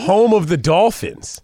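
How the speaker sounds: stretched out PA announcer call; echoing stadium announcer. Shown as a demonstration. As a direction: boom it out over the stadium. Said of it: "What's the sound again?".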